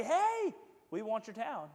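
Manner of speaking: a high, loud "Hey" from the invading army; mock army demand. Invaders demanding the town, mock bossy shout. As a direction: call out like a pushy conqueror.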